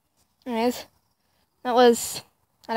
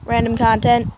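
loud; 8 dB louder than usual. Real, not acted. Loud vlog sign-off.

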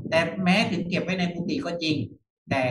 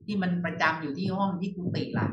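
higher-pitched imitation of a startled listener; a touch of alarm in a puzzled question; mildly startled; 4 semitones higher than usual. Listener hearing the rule about room cloths, mildly startled. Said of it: "บางคนก็ตกใจ".

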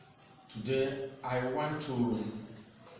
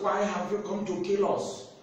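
mild, raised-pitch mock shout; retold demon shout; 5 semitones higher than usual. Demons confronting Jesus through the madman, retold shouting. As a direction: cry out like cornered demons, half-hearted. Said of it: "The demons were shouting from the madman".

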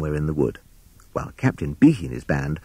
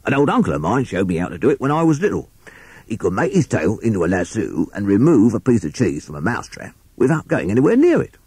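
lightly voiced rat recalling his uncle; storytelling Rat; 4 semitones higher than usual. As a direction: tell it as a chatty rat character.

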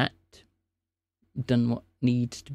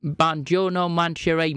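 put-on Italian accent. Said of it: "speak in that accent again".

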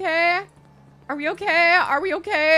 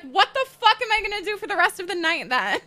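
quick, hammed-up indignant rant; exaggerated fast exasperation; mock outrage; faster than usual. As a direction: play at being mad, rattling it off. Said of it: "I was about to be so mad".

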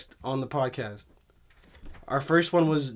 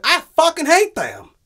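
higher, louder hateful outburst; angry yell; 11 semitones higher, 7 dB louder than usual. Retold or imitated. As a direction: spit out the hatred. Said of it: "He's like".

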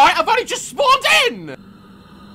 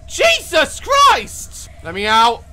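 terrified shouting; 2 semitones lower, slower than usual. Real, not acted. Terror on the train.

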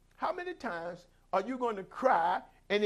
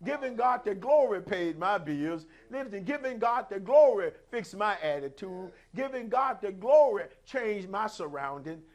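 loud, emphatic preaching cadence; full-force preaching; 5 dB louder than usual. Real, not acted. Preacher testifying that prayer paid the bills, full-force preaching. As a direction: preach it out, driving each phrase home.

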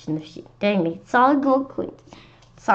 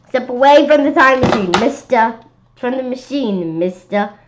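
police order; 4 semitones higher, 6 dB louder than usual. Acted.

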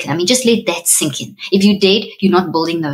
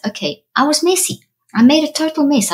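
higher, light acceptance of the mess; bright accepting self-talk; 9 semitones higher than usual. Retold or imitated. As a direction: lift it up as if shrugging off the mess.

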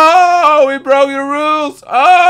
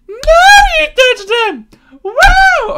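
excited shout; 11 semitones higher, slower than usual. Real, not acted. Gamer shouts in triumph at the touch. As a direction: drag it out in triumph. Louder slower repeat.

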